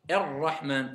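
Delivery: "Ar-Rahman" slow, light roll on the r; slow recitation. Shown as a demonstration. Teacher modelling Ar-Rahman slowly for pupils. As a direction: draw out "Ar-Rahman" gently. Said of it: "Faut pas trop la rouler".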